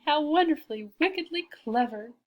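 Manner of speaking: lightly voiced scheming cat; giggling wicked cat. A narrator's reading. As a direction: relish it with a touch of wicked glee. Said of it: "he giggled again".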